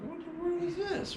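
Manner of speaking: very high, slow astonished cry; city man amazed by a backyard stream; amazed disbelief. Retold or imitated. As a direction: sound truly baffled by what you see.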